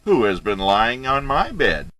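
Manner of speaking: high, loud mama bear cry; Mama Bear-sized voice. A narrator's reading. Mama Bear sees her bed slept in, high loud voice. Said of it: "in her Mama Bear-sized voice".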